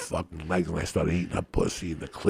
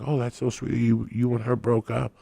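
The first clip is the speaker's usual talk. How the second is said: lightly voiced woman, higher and cooing; imitated sympathy; 6 semitones higher than usual. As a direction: mimic her sympathy in a raised voice. Acts out her sympathetic reaction.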